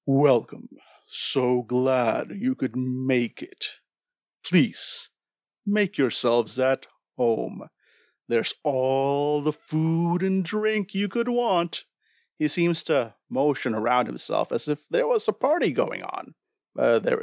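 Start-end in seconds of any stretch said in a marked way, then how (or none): 0.0-11.8 lightly voiced sinister host; slow, hint of a menacing host; deep host voice. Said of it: "a deep voice coming from this being".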